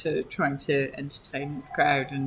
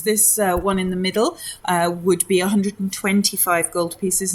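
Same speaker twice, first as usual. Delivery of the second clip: a touch higher, fussy salesman; lightly voiced shopkeeper; 3 semitones higher than usual. Shopkeeper pricing pearls for a customer, lightly raised polite voice.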